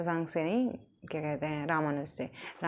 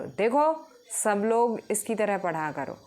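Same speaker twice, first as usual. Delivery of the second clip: teacher praising; 3 semitones higher, 4 dB louder than usual. Retold or imitated. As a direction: call out proudly to the class. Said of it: "वो ma'am उसके हाथ पे सिर भेजते हैं".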